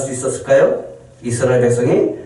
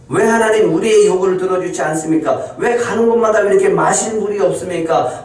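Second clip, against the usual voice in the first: higher, pressing complaint; grumbling Israelites; 5 semitones higher than usual. Acted. Israelites complaining to God about water, higher and pressing.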